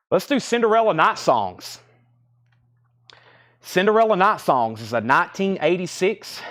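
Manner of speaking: out of breath, panting between words; breathless from hauling heavy crates. Real, not acted. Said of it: "Sorry, I'm out of breath".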